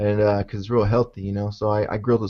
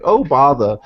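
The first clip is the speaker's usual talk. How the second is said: mimicking New Zealand accent; 5 dB louder than usual. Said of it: "in her accent".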